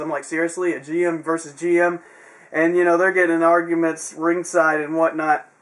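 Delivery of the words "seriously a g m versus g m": ordinary talk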